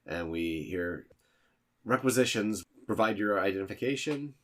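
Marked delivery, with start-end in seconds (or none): 1.8-4.3 higher, louder official greeting; brisk phone operator. Acted. The Saber intern picks up the requisition call, brisk and official. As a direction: answer the line like a busy clerk.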